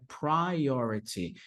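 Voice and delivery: priority with an open first vowel, pry-OR-ity; correct pronunciation. Shown as a demonstration. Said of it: "a pronúncia aqui ela é bem aberta".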